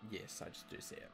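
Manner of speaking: hushed whisper. Real, not acted. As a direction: whisper it, spooked. Answering the eerie pop-up.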